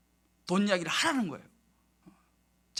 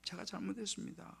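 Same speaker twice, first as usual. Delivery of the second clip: hushed confession to God; retold quiet prayer of repentance; repentant prayer; 12 dB quieter than usual. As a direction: murmur the apology very softly, humbled. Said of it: "회개 기도를 했어요".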